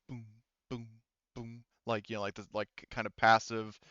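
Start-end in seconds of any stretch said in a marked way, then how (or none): 0.1-1.6 imitated pulse. Shown as a demonstration. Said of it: "motion tracker's doing the".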